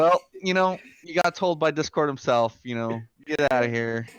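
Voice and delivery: a smirking gloat; smug. Retold or imitated. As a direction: gloat like a kid behind a parent. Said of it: "the smirk on my face".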